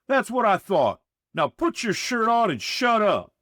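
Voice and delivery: high loud snapping order; snapped. A narrator's reading. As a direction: snap it, thoroughly fed up. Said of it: "Reedy snapped".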